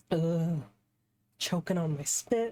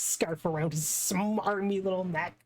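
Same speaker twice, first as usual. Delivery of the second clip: mock-seething; 3 semitones higher than usual. Defender fuming at the smarmy prosecutor, mock-seething. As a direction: relish the threat with mock fury.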